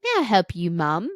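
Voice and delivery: polite young British man, lightly voiced accent; a light British accent, politely asking. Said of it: "In a very British accent".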